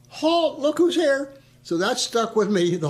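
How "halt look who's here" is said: high, loud mocking chant; crowd holler. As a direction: yell it like a jeering mess hall. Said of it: "about a hundred guys stand up and holler".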